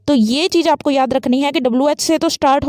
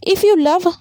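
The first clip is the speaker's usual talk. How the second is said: "If you love" raised high and left open; rising intonation; 4 semitones higher, much slower than usual. Shown as a demonstration. Teacher shows an incomplete sentence to students, rising intonation. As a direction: lift "If you love" as an unfinished thought. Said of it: "rising intonation का use करेंगे".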